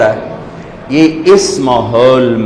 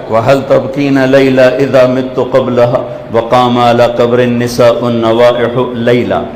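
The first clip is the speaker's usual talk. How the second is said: even, unhurried verse recital; at ease; 2 semitones lower than usual. Retold or imitated. Lover-poet recites about Layla before his society, retold with calm ease. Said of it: "تو وہ بڑے آرام سے کہہ رہا ہے".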